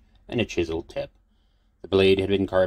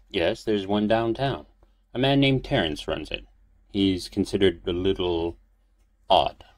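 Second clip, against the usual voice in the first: put-on old priest voice; 2 semitones higher than usual.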